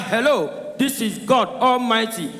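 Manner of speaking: mild mock booming call; God shouting. God calling the Igbo man on the phone, mock booming. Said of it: "As God shout".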